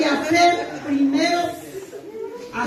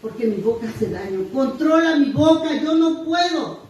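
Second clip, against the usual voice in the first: pleading prayer. Retold or imitated. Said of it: "yo le pido a Dios".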